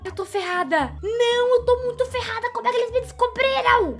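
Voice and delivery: high, loud, frantic near-crying; panicked. Real, not acted. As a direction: babble in real panic while cornered. Panics after being discovered.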